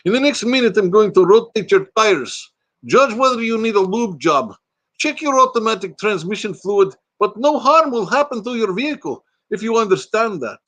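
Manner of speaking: put-on high-pitched comic Russian accent. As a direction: read it out in a hammed-up Russian accent. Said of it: "I'll do this one in Russian".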